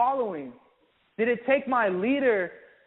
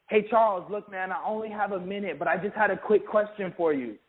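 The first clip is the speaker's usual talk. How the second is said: rushed phone call demo. Shown as a demonstration. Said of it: "when you call one of your friends".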